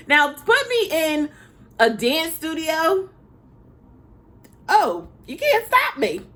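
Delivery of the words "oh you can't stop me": excited boast. Real, not acted. Gushing about loving dance.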